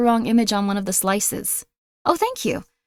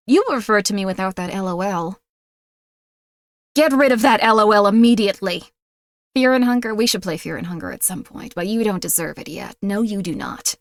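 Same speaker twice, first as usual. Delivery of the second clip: mock haughty mistress; 2 semitones lower than usual. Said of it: "I'm doing a voice".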